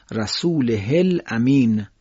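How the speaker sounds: رسوله الامین بدون اشباع، آهسته; رسوله الامین را با های کوتاه و آهسته بخوان; short ha demo, slow. Shown as a demonstration.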